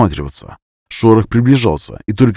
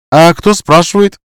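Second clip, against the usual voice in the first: quiet shout; 8 semitones higher, 6 dB louder than usual. A narrator's reading. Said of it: "тихо прокричала Снежанка".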